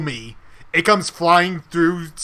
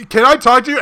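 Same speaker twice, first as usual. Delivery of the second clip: exasperated homeowner; 7 semitones higher, 5 dB louder, faster than usual. Retold or imitated. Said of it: "the guy looks at me and goes".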